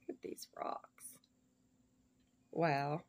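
soft unvoiced whisper. Real, not acted. Admiring the gift stones for viewers, whispered. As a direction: barely breathe the words in wonder. Hushed over the rocks.

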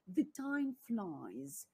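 "The time flies" said very slowly, word by word; slow model phrase. Shown as a demonstration. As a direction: stretch out "The time flies" for learners to copy. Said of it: "вони кажуть".

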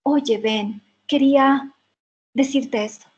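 the actor's line as the film plays it. Shown as a demonstration. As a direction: deliver it like the actor on screen. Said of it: "Entonces dice".

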